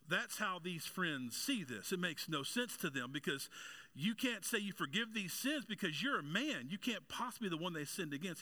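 high-pitched, emphatic sermon delivery; impassioned preaching. Real, not acted. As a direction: preach it with rising urgency, pitch swooping high.

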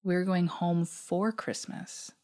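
stammering in shock. Retold or imitated. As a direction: stammer it out, stunned. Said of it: "I managed to stammer".

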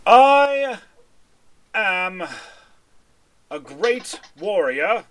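booming, slow challenge from a proud warrior; proud fighter calling out a duel; great warrior. Acted. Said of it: "takes a deep breath and goes".

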